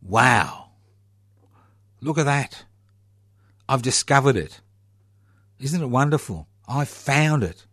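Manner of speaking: mocking a colonial explorer claiming land already named; mock wide-eyed explorer. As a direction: play a smug explorer marvelling at found land. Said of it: "somebody kind of travelling down says".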